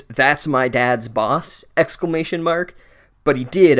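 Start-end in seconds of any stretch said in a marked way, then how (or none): 0.0-1.6 slow, drawn-out mock breath of a line. Ron in hiding, breathing it to Harry, mock slow. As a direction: breathe it out slowly, tongue in cheek. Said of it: "he breathed it".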